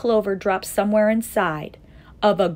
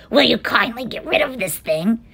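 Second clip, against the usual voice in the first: mock-polite demand; 5 semitones higher, 5 dB louder than usual. A narrator's reading. Monkeys order eagle to take clover.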